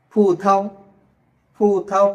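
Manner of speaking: ফু থাও with aspirated consonants; Chinese pronunciation. Shown as a demonstration. Teacher modelling Chinese for grapes, ফু থাও in careful syllables. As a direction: separate ফু থাও into two puffed syllables. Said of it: "এটার উচ্চারণ কেমন হচ্ছে".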